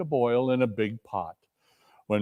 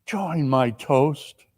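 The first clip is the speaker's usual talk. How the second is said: gentle coaxing; 4 semitones higher, slower than usual. Acted. Bob coaxing his wife to join the toast. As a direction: coax her kindly.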